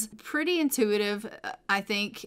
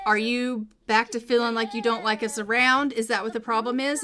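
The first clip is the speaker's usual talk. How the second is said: mildly impish, needling questions; impish pestering; 3 dB louder than usual. Acted. Son impishly pestering his mom about not liking them, mildly needling. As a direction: pester her with a light, teasing push. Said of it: "impishly pester her".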